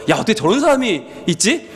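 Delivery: ordinary talk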